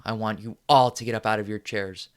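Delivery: loud furious command building to a yell; angry rallying shout. Acted. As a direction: whip the audience into rage.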